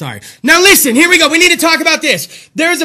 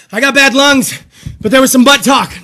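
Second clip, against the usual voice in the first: louder, full-voiced declaration; 7 dB louder than usual. Real, not acted. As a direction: say it out loud in his own booming voice. Same words, back to full voice.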